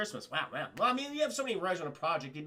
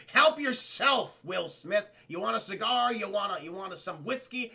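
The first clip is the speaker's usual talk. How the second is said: a lightly voiced jovial president handing out cigars; hearty host president; 2 semitones higher, 5 dB louder than usual. Streamer voices the president welcoming Will Smith, mock jovial host.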